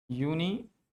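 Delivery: "यूनिवर्सिटी" split as yu-nee, pause, vas-tee; "यूनिवर्सिटी" in separate chunks, no r; broken-down pronunciation. Shown as a demonstration. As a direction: sound out "यूनिवर्सिटी" in two parts for learners. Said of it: "इसका pronunciation होता है यूनिवर्सिटी".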